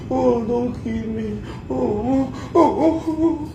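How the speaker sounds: slow, high, drawn-out mock moaning; exaggerated imitation of a woman moaning Vivi. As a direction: stretch each oh into a hammed-up moan. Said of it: "or screaming".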